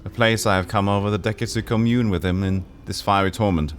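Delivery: lightly voiced lovelorn woman; Drusilla. Drusilla telling the player about her love. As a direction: confess her love with longing.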